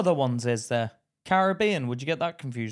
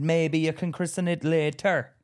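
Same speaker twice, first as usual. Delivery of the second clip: lightly imitated Jamaican plumber, a bit higher; joking Jamaican plumber; 4 semitones higher, 4 dB louder than usual. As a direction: crack the plumber's joke in a mild Jamaican lilt. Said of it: "like, as a joke".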